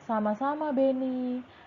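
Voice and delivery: lifted, lively reply as Dayu; role-play as Dayu. Shown as a demonstration. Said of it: "Bu Guru yang menjawab juga".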